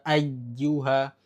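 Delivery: ayyuha with a clear glottal catch on the final ha; correct hamzah. Shown as a demonstration. Teacher demonstrating the correct ayyuha ending. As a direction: ayyuha ending crisp and full. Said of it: "Dibacanya sempurna".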